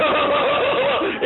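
high mock blubbering wobble; hammed-up trembling-lip whimper; imitated lip quiver. Groom fighting tears at the altar, mock whimper. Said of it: "The bottom lip is just like".

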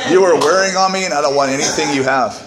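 mock indignant wife. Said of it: "and she goes".

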